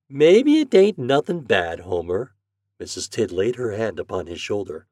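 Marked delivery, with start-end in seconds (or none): 0.1-2.3 slow, raised motherly voice; reassuring mother. Acted. Mother soothing Homer, reassuring. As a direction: slowly reassure your worried boy.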